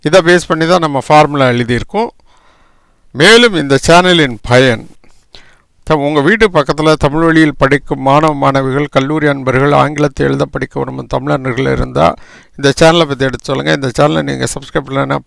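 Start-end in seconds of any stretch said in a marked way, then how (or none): 3.1-4.9 whisper. Acted. Channel appeal said in whisper. 5.8-11.7 whisper. Acted. Channel appeal said in whisper.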